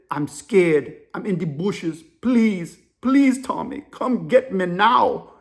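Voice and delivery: put-on African-accented begging, drawn out at the end; imitated scared African caller. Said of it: "The African dude's whispering".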